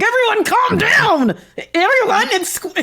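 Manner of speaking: forced through clenched teeth, very high-pitched. Imitating an overwhelmed teacher telling students to calm down, through clenched teeth. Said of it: "has her teeth clenched and is like".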